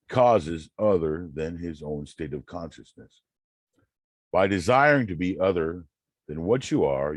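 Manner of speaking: declaiming a quote with conviction; reading aloud. Acted. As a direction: read it like a preacher's text. Reads Neville passage aloud.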